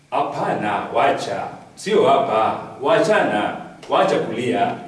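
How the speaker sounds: put-on slow, loud old-man Swahili scolding; Kibaki's style. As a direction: scold him gently like Kibaki. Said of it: "in his characteristic style".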